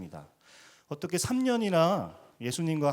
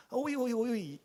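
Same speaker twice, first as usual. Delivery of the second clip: put-on high, anxious "오이, 오이, 오이" as to a child; Russian warning call; 10 semitones higher than usual. Russian parent warning a child about to get hurt, high anxious call. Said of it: "이렇게 하면서 조심하라는 뜻".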